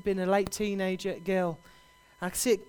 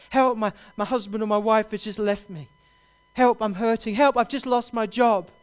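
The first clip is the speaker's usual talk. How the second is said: louder, pleading cry, building with each help; desperate cries for help; 2 semitones higher, 6 dB louder than usual. Retold or imitated. Preacher voicing hurting people crying out, loud desperate pleading. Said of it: "so many people are crying out".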